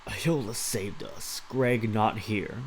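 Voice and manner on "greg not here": mock broken speech. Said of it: "dude speaks like that".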